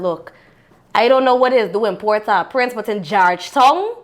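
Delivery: mock-tough Guyanese talking-to; Guyanese dialect warning. Wife warning her man in Guyanese dialect, mock tough. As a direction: lay down the law in Guyanese Creole.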